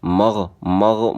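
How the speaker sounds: slow, held مغ with throaty "gh"; مغ as "magh", gh flowing; correct ghain. Shown as a demonstration. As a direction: draw out the fricative ending of مغ. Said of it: "غین کو".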